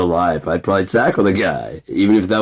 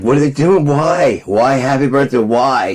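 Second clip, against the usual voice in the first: put-on high, louder whining kid; scared little kid; 7 semitones higher, 4 dB louder than usual. Remembering childhood birthdays, high frightened kid whine. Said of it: "I was like".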